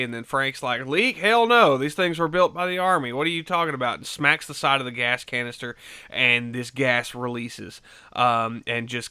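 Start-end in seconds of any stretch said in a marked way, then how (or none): 0.9-4.0 mock-indignant, pitched up and louder; a hammed-up scoff at the idea; scoffing retort. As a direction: brush off the silly question with scorn. Frank scoffs at leak question.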